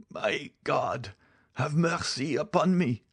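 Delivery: high, anguished dying voice; agonized plea. Acted. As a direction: plead for mercy in a high, tormented voice. Dying man's last prayer.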